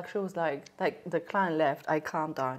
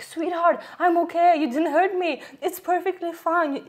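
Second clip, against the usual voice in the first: high-pitched imitated reassurance; calming; 9 semitones higher, 5 dB louder than usual. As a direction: play the client consoling a tearful therapist. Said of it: "calming me down".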